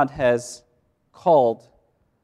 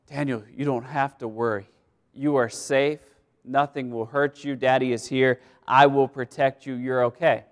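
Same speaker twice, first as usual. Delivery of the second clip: reassuring father; 3 semitones lower than usual. Retold or imitated. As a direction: soothe a scared boy at bedtime. Father comforting frightened son.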